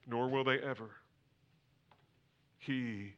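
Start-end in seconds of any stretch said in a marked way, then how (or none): 2.6-3.1 hushed. Acted. Hushed climax of sermon.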